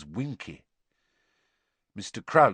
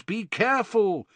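high, concerned warning; raised-voice warning; warningly; 9 semitones higher, 4 dB louder than usual. A narrator's reading. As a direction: caution him urgently. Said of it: "said a few of the wizards warningly".

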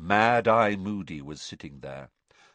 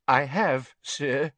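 scared; 6 semitones higher, 4 dB louder, slower than usual. A narrator's reading. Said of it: "his voice was very scared".

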